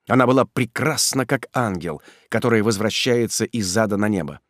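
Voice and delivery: ordinary delivery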